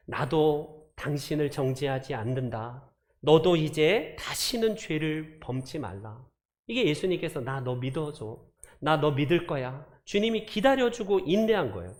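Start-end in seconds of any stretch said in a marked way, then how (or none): 0.1-6.2 gentle forgiveness. Retold or imitated. Jesus forgives the woman. 7.4-9.9 reassuring. Retold or imitated. Jesus reassures.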